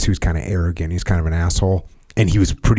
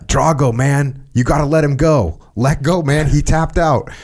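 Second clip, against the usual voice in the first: retold yell; 5 semitones higher than usual. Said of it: "like, yelling".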